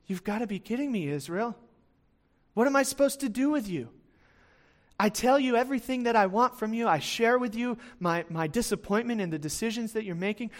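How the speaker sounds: mildly exasperated, fed-up appeal; exasperated disbelief. Acted. God to Israel, still sinning after warnings, mild exasperation. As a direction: voice God's disbelief, with some exasperation. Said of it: "he's kind of just got this attitude of like".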